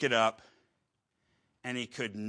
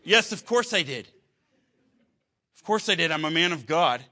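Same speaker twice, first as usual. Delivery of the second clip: much higher and louder, hammed-up offended reply; mock indignant husband; 4 semitones higher, 5 dB louder than usual. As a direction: play the huffy man of God, overdoing it.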